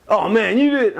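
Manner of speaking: high mock holler; dismayed outcry. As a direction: imitate a tricked brother protesting through a door. Locked-out brother realizes the trick.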